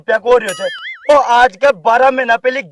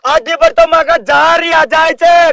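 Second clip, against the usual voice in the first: angry scolding; 2 semitones higher than usual. Real, not acted. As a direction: berate the politician in front of the crowd. Villager berating politician at protest. (गुस्से में ज़ोर की फटकार)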